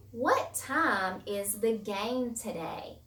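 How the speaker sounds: slow, deliberate question; slow example reading. Shown as a demonstration. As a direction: read it out slowly for the class. Example sentence read slowly.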